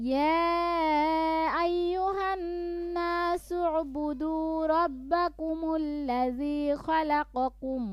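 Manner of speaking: slow, drawn-out melodic recitation; Quran recitation. Shown as a demonstration. Teacher reciting the verse for students to follow. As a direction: chant the verse unhurried.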